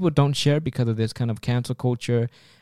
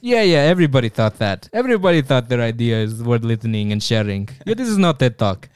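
dismissive recruiter; 3 dB louder than usual. Pretend.

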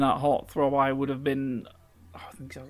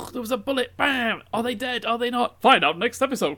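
dramatic trailer voice; 9 semitones higher, 5 dB louder than usual. Pretend.

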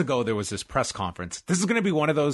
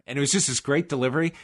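usual speaking voice

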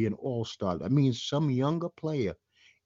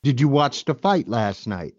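louder, clearer repeat; 7 dB louder than usual. Real, not acted. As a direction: say it again so they hear you. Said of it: "Say that again?".

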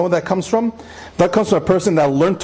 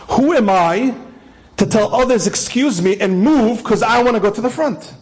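earnest emphasis; 5 semitones higher than usual. Retold or imitated. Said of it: "Do you hear those words?".

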